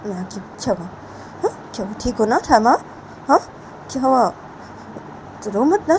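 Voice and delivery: high, pleading mother's voice; mother comforting. Acted. Mother soothing her crying daughter, high and pleading. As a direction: coax her gently to stop crying.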